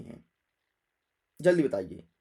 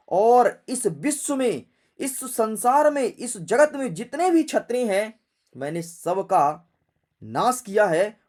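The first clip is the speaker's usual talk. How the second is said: Parashuram; 4 dB louder than usual. Acted. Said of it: "Parshuram जी अपने फरसे को देख करके बोले".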